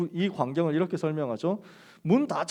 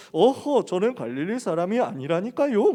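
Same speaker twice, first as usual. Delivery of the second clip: mock standard-Korean accent, lightly overdone; awkward standard accent; 3 semitones higher, 4 dB louder than usual. Galilean Peter denying his origins, awkward standard accent. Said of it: "표준어 어색하게 흉내내면서".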